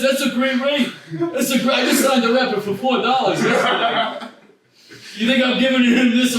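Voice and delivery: a hint of an old record boss; Bernie Sanders voice. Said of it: "I'll be the Jew now".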